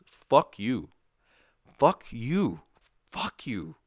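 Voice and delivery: rising outrage, repeated with a high pitch; over-the-top angry rant; mock furious cursing. Real, not acted. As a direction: spit it out in exaggerated disgust. Ranting about cooler prices.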